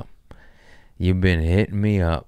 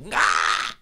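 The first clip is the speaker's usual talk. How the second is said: imitated cackle.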